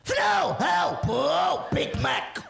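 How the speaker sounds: loud mock-Vietnamese bursts with swooping pitch; hammed-up South Vietnamese accent. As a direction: bark out fake South Vietnamese love talk. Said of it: "South Vietnamese".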